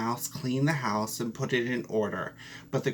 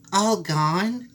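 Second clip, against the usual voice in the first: high, louder shocked cry; cried out; 7 semitones higher, 6 dB louder than usual. Acted. Mouse hears the last name, crying out high and loud. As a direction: shriek the name in disbelief. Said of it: "cried the mouse".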